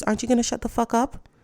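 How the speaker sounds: sassy retort. Pretend. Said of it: "the only thing I wanna ask is".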